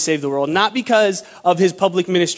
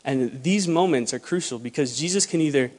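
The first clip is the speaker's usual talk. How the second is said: usual speaking voice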